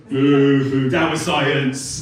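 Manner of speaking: loud, drawn-out booing protest; mock heckling. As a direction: boo like a heckler jeering the act. Mimics heckling audience after failed joke.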